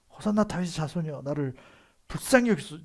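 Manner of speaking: loud, high-pitched plea shouted over a crowd; Bartimaeus crying out. Acted. Bartimaeus calls to passing Jesus for mercy, shouted plea. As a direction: shout desperately for mercy, rising to a peak. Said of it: "그래서 이렇게 외쳐요".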